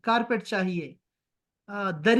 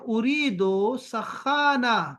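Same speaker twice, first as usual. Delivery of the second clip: slow Arabic line; much slower than usual. Shown as a demonstration. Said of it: "مشتری کہتا ہے".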